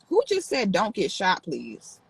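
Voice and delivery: rising in disbelief, then a dropped murmur; stunned that someone wrote that; shocked question. Real, not acted. Streamer reacting to a chat comment, stunned.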